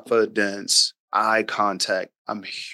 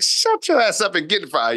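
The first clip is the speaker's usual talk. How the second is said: mock stern order; 8 semitones higher than usual. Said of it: "I don't say that".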